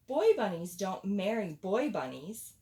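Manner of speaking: loud, bossy stink bug; bossy decree. Acted. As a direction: lay down the law loudly. Bossy stink bug lays down law.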